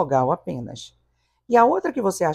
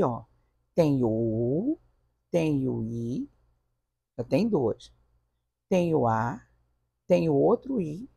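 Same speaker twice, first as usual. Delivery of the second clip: student voice. Pretend. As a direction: play the student counting vowels with a touch of doubt. Teacher voices a confused student.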